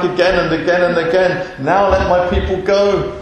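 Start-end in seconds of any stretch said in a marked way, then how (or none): 1.6-3.1 firm, declarative command; insistent demand. Acted. Moses back before Pharaoh yet again, insistent. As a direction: state the demand without backing down.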